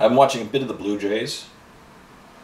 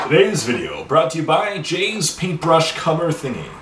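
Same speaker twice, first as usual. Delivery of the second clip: mock ad read; 5 semitones higher than usual. Mock sponsor read about lost cover.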